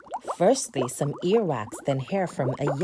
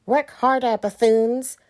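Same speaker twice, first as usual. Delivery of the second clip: witch voice; 6 semitones higher, 7 dB louder than usual. Acted. Witch yells orders.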